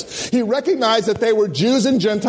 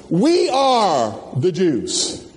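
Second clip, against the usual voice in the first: mock proud declaration; 2 semitones lower, much slower than usual. Proud voicing of Jews.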